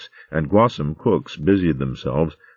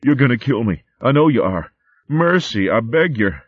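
pleading and sobbing; 7 semitones higher, 3 dB louder than usual. Acted. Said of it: "pleading and sobbing".

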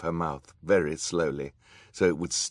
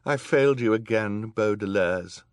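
distressed, raised voice; tearful regret; 5 semitones higher, 7 dB louder than usual. A narrator's reading. Judge apologising to the children, tearful and distressed. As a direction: confess it with anguish. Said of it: "her eyes filled with tears".

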